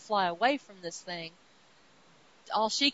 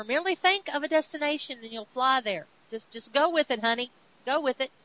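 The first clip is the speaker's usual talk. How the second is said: higher, louder coaxing encouragement; Thor urging, louder; 4 semitones higher, 5 dB louder, faster than usual. Acted. Thor urging Jane to trust her flight, raised encouraging voice. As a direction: cheer her on to just go with it.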